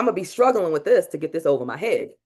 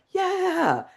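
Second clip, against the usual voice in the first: high, slow triumphant declaration; proud mantra; 7 semitones higher, much slower than usual. Shown as a demonstration. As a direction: claim it like a champion. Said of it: "demo of the mantra".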